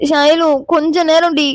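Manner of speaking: slow, drowsy plea; sleepy pleading. Acted. Half-asleep Meera begs for time. (தூக்கக் கலக்கத்தில் கெஞ்சல்)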